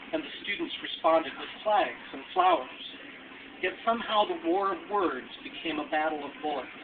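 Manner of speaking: measured, restrained memorial poem reading; deliberate phrases set apart by pauses, falling at the ends; poetry recitation. Acted. Alumnus reads a memorial poem for Kent State, measured recitation.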